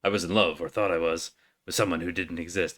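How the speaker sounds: low, subdued soldier voice. Acted. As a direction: take it down into the hero's voice. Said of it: "Oh, that's him".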